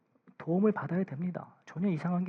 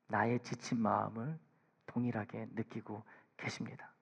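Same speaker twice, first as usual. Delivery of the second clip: hushed whisper; 6 semitones lower, 12 dB quieter than usual. Real, not acted. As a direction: lean in and breathe it to the congregation. Sermon drops to intimate hush.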